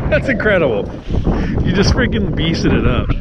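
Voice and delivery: loud, high hyped praise; amazed praise. Real, not acted. Angler praises his friend's catch, loud and amazed. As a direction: hype your buddy up.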